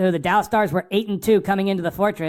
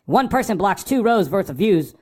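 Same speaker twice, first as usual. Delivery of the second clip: scolding a rookie fan about etiquette, higher pitched; lecturing the newbie; 4 semitones higher than usual. Retold or imitated. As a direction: set him straight, a bit worked up. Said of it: "I'm like".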